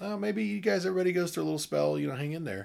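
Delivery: high-pitched, coaxing mock reassurance; imitated consoling advice. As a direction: voice a relative soothing a couple, pitched high. Voicing old-fashioned family advice to couples.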